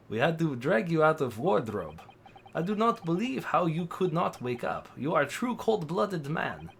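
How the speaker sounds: put-on amateur Russian accent; rough attempt at Russian-accented English. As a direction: voice a stern game character with a put-on Russian accent. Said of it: "Oh, he's Russian".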